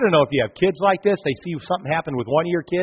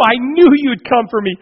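high and loud, overjoyed; a boy thrilled to hear his father's voice; excited child; 9 semitones higher, 7 dB louder than usual. Acted. Trapped son calls out to his father, high and joyful.

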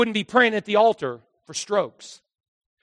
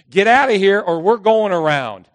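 mock shout; 3 semitones higher, 10 dB louder than usual. Adam voiced, loud.

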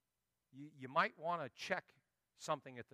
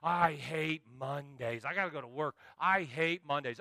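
mock weary grumble. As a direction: drag it out like a bored worker. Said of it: "I meet people that just show up".

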